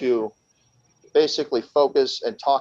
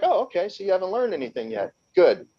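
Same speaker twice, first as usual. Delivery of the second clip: retold mock acceptance; 8 semitones higher than usual. Captor's retort to a boast, retold.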